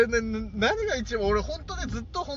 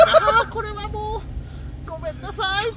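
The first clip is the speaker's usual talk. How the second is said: stifled giggles; 13 semitones higher, 7 dB louder than usual. Retold or imitated. Recalling suppressing laughter.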